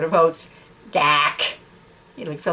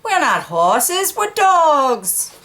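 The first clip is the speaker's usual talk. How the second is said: insistent dog; 7 semitones higher, much slower than usual. Acted.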